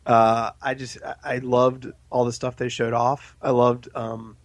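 hoarse, fading voice; voice giving out. Real, not acted. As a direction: voice cracking and giving out. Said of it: "losing my voice".

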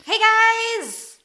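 high cheerful call. Acted. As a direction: shout a greeting across the yard. Character calling out a greeting.

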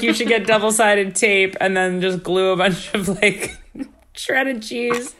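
high, laughing, rising excitement; excited friend quote. Retold or imitated. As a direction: pitch climbs through giddy laughter. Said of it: "they were like".

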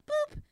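high cheeky boop sound; a bright little boop as she cuts in; playful boop. Retold or imitated. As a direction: chirp it like a cartoon beep. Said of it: "I was like".

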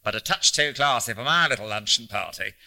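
lightly voiced old man jeering at fancy airs; mock-grand, punched words with a rising finish; mocking Hanlon. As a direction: play up the scornful sarcasm. Voices Hanlon mocking luncheon party.

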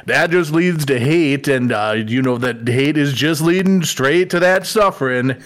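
folksy Minnesotan Yoda, long drawn-out vowels; slow, hammed-up Minnesota lilt; Minnesota accent. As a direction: lay on a thick Minnesota accent, stretching key words. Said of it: "say it in a good old Minnesota accent".

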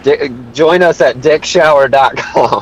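slow mock commercial pitch; mock ad read. Plugging a fake sponsor: slow mock ad read. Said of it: "the new sponsor of ours".

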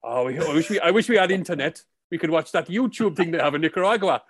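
wistful Welsh local in a put-on Welsh accent; mock Welsh accent. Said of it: "This is a Welsh accent".

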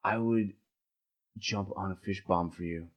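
spaced out and sincere; stoner. Acted. Stoned love confession.

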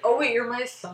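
playful mom voice. Retold or imitated. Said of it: "she's like".

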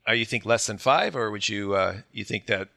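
husky, just-woke-up voice; rough husky voice from early morning. Real, not acted. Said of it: "I like your husky morning voice".

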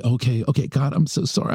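high imitation of her backing down; frantic apology.

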